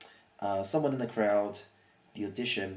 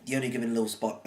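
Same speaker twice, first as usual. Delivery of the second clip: rushed; faster than usual. Shown as a demonstration. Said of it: "I say this proper and meaningful".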